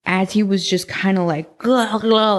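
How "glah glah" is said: wet gargled glah sounds in the throat; mock gargling. Recalling the drunk attacker, mock gargling. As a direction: imitate a drunk man's gargling, lightly. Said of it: "like, gargling".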